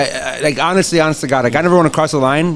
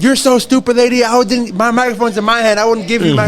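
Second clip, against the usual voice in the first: higher scornful taunt; mocking heel; 5 semitones higher than usual. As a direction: belittle her with mock pity. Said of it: "And I was like".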